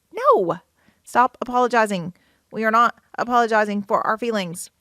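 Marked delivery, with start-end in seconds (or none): 0.1-2.1 emphatic objection. Acted. Rejects the acted apology.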